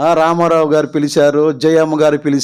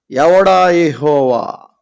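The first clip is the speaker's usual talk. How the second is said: slow, scornful "ఎవడా యెహోవా?"; proud Pharaoh; 2 semitones lower, much slower than usual. Acted. Pharaoh sneers at Moses, slow and scornful. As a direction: drag it out with contempt. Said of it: "ఎంత గర్వం అండి".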